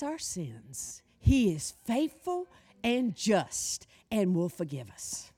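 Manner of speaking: soft, slow reassurance; tender. Real, not acted. Preacher to the guilty congregation, soft and tender. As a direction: comfort them gently.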